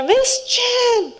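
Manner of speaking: high shout of a name across the yard, laughing; calling out. Retold or imitated. Jeremy calls out to teacher from the band, high laughing shout. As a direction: yell it out of the blue with a laugh.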